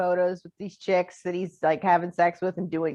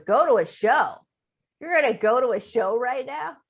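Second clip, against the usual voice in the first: louder, rising incredulous echo; imitated disbelief; 5 semitones higher, 3 dB louder than usual. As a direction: repeat it back in mock disbelief. Acting out roommate's incredulous repeat.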